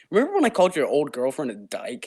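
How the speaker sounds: laughing through a teasing reminder. Retold or imitated. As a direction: bring up the joke chuckling. Friend's repeated joke.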